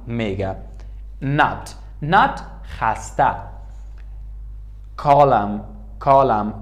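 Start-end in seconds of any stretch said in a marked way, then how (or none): 5.0-6.5 "کالم" ending on M, with no N; silent N. Shown as a demonstration. Teacher showing English "column", "کالم" with silent N. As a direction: say "کالم" as "kolam", stopping on the M.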